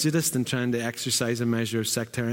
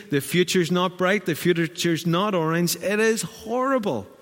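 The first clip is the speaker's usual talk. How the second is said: tired grumpy self; 4 semitones higher than usual. Retold or imitated. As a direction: play your own cranky tired self. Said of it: "I figured out that when I'm tired".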